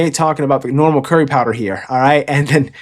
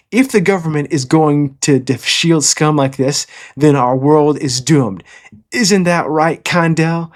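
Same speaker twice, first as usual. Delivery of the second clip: cool tough-guy line; 2 semitones higher, slower than usual. Retold or imitated. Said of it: "Ruvan has a pretty gangster line".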